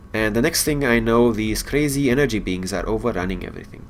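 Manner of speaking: casual read-through of quest dialogue; reading game dialogue. Acted. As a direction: read the characters' lines with mild lift. Reading NPC and player lines.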